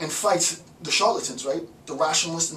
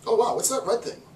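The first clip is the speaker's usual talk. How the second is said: surprised discovery; 7 semitones higher than usual. Retold or imitated. The institution spots a red dot.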